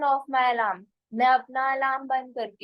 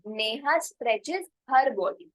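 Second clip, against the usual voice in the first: very slow, word by word; teacher dictating an example sentence; slow model sentence; much slower than usual. Shown as a demonstration. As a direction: spell it out slowly for learners. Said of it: "तो मैं नेहा लगा सकती हूँ".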